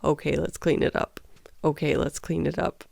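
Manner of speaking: calm. Retold or imitated. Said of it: "I just calmly said".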